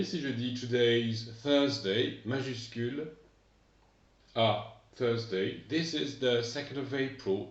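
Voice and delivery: slow, careful English date; teacher modelling English; English pronunciation. Shown as a demonstration. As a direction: spell out today's Thursday the second of April slowly. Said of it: "En anglais".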